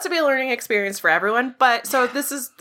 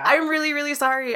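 laughing apology; 6 semitones higher than usual. Retold or imitated. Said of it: "I'm gonna cry".

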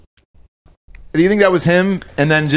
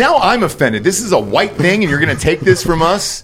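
mock offended; 6 semitones higher than usual. Mock outrage over appropriation.

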